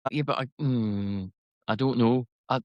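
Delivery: put-on Scottish accent. Shown as a demonstration. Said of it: "I'll try my, my Scottish accent again".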